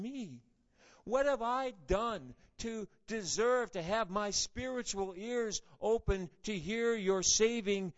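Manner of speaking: rising, marvelling questions to God; grateful wonder. Shown as a demonstration. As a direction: ask in awed gratitude, building. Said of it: "We need a more positive approach".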